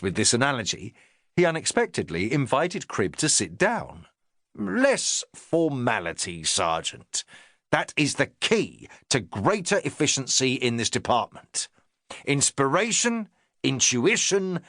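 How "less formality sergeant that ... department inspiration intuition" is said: a touch of a self-important inspector; the inspector talking down to his sergeant, lightly pompous. Acted.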